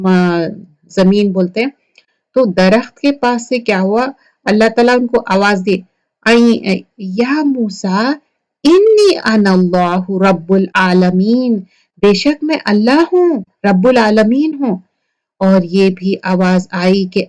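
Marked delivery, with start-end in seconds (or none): 6.3-14.8 divine call. Acted. God announcing himself to Moses, slow solemn proclamation. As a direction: proclaim it slowly and grandly.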